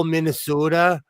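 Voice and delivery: Minnesota accent with long O. Shown as a demonstration. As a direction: go full Minnesota on the O. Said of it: "I have this really weird accent".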